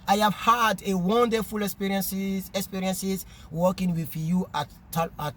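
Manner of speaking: slow letter reading in accented English; strange French-African English accent. Real, not acted. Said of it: "mon accent est trop bizarre". (lecture lente en anglais avec accent africain francophone)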